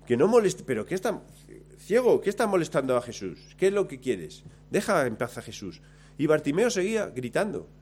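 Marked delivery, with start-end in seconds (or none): 0.1-5.8 lightly acted crowd telling someone off; scolding bystanders. Bystanders scolding blind Bartimeo to leave Jesus alone, mildly indignant rebuke. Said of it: "mira a los otros cómo se oponen".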